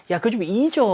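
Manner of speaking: mildly dismissive urging; a touch of scolding friend. Acted. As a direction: brush it off for her. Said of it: "판단 내리듯이".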